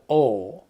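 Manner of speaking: OR with a long drawn-out vowel, no r; lengthened syllable. Shown as a demonstration. Teacher telling pupils to lengthen it, drawn-out OR. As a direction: stretch "or" into one long British vowel. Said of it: "Vous allez allonger la syllabe".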